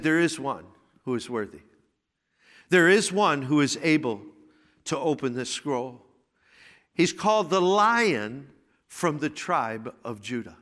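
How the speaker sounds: elder's reassurance. Retold or imitated. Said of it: "One of the elders said".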